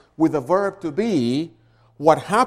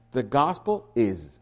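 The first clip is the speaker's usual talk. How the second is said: "is" set down firmly as the last word; low, deliberate close on "is"; stress on IS; 4 semitones lower than usual. Shown as a demonstration. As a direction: land on "is" and stop. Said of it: "Do you get the emphasis?".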